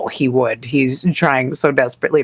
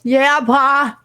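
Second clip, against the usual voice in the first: put-on high small child answering; little girl voice; 9 semitones higher than usual. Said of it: "She goes".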